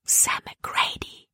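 voiceless, slowed whisper of a name; Libby names the dangerous man in a whisper. A narrator's reading. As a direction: let the name out slowly on breath alone. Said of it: "flüsterte sie Caleb zu".

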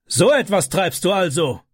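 high mock-angry shout; hammed-up furious stepfather. A narrator's reading. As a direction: catch the boy red-handed, yelling. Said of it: "schrie er".

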